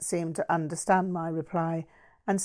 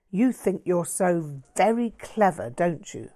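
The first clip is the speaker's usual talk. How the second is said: mild spiteful taunt; vituperated. Acted. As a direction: lash out with bitter scorn. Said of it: "Todd vituperated".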